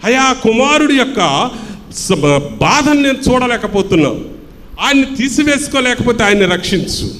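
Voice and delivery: high-pitched retold prayer, no real sobbing; imitated tearful plea. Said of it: "కన్నీటితో ప్రార్థన చేస్తూ ఉంది".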